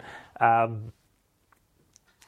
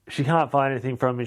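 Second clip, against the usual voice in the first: ordinary talk, nothing marked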